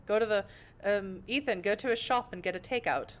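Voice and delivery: hammed-up bad British accent; clumsy mock-British; terrible British accent. Shown as a demonstration. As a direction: have a poor go at sounding British. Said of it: "That's my British accent for you. It's terrible".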